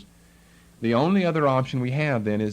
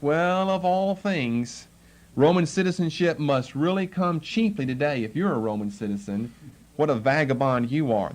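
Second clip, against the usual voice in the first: sarcastic. Acted. Captain sneering at a vagabond preacher, sarcastic. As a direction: belittle him with mild sarcasm. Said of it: "it's with sarcasm, looking at him like".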